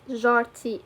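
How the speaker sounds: جارتي with zh instead of hard j; intended pronunciation. Shown as a demonstration. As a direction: say جارتي as "zharti". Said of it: "she will understand that I mean".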